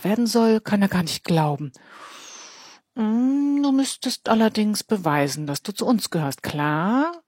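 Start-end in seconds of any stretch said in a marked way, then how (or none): 3.0-7.2 bully voice, a touch higher; tough boy. Acted. Gang leader pressuring Elias, lightly voiced bully. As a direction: lean on him like a teen bully.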